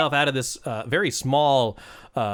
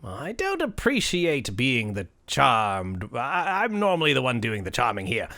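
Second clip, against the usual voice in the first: lightly voiced, indignant leprechaun; offended leprechaun; 2 semitones lower than usual. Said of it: "it's like".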